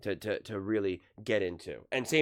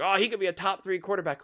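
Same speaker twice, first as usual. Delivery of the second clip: high-pitched imitation of gushing fans; mock fan hype; 10 semitones higher, 4 dB louder than usual. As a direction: gush like everyone on the bandwagon. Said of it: "everyone's like".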